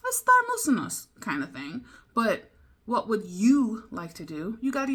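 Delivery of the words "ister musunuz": ister musunuz said high and loud; high casual offer. Shown as a demonstration. Example of a casual Turkish offer, high-pitched. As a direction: toss off the offer brightly.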